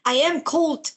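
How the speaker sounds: lightly voiced flustered assassin; assassin's normal voice. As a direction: backpedal in a fluster. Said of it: "goes back to his usual, like, normal voice".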